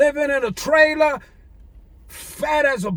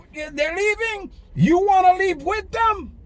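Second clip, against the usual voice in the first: firm Jesus quote; 5 semitones higher than usual. Retold or imitated. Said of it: "He said".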